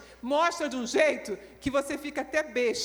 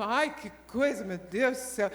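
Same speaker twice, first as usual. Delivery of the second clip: complaining; 3 semitones lower than usual. Acted. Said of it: "Já chega reclamando".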